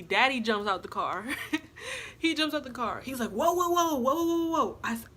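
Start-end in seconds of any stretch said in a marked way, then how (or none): 3.3-4.8 higher, rapid-fire mock whoas; alarmed calming. Baby daddy jumping out to intervene, raised mock alarm. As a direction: imitate someone rushing in to stop a fight.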